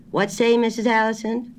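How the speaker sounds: high, loud country grocer straining to hear; a country shopkeeper on a bad line; rustic grocer. A narrator's reading. Grocer asking her to repeat, high and loud.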